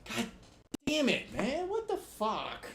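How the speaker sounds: yelling at the game after dying; frustrated shout. Real, not acted. Gamer yells in real frustration at dying.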